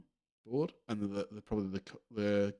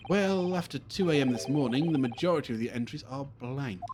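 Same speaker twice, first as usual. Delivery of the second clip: grand, erudite sleuth explaining his study; theatrical detective; 4 semitones higher, 4 dB louder than usual. Acted. Detective explaining what he was examining, grandly theatrical. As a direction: expound like a great detective. Plays Sholmes.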